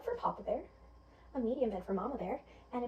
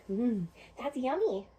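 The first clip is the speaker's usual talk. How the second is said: savouring; slower than usual. Acted. Goldilocks enjoys the porridge.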